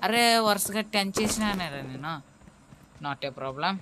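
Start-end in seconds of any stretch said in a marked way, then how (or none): 0.1-2.1 louder, higher excited boast. Real, not acted. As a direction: crow about the kill streak. Boasting about a ten-kill streak.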